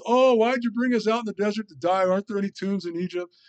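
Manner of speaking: high-pitched mock whine; grumbling complainer. Israelites griping in the desert, mock complaining. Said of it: "The grumblers and complainers".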